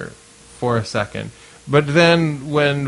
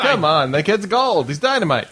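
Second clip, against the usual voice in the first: higher-pitched sarcastic gushing; mock talent-scout hype; 5 semitones higher than usual. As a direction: talk him up like an overeager promoter. Mock talent scout praising a comic.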